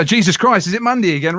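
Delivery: same words but bright and lively; upbeat inflection. Shown as a demonstration. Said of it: "it's just an inflection".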